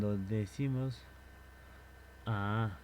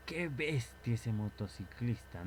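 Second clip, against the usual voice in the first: slower, a touch of amazement; amazed remark. Shown as a demonstration. Watching a speeding motorcyclist, mildly amazed. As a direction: marvel at the reckless biker. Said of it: "y tú dices".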